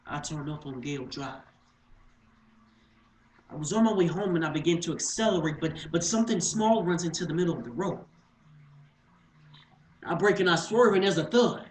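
tense stage narration, quickening then halting; urgent recollection breaking into pauses; dramatic monologue. Acted. Monologue, the accident.

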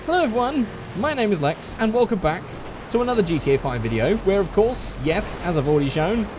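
put-on Aussie accent, lilting up and down; terrible Australian accent. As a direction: do a hammy, bad Australian accent. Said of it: "stop doing that accent".

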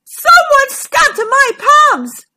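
high, slow, drawn-out wail; storybook dinosaur wailing at full volume; loud wail. A narrator's reading. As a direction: wail it out in outraged accusation. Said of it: "wailed Triceratops".

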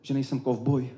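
high, pleading lover's verse. Acted. Karel urging Hernanda not to fear him, high urgent wooing. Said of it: "Karel Hynek naléhavěji".

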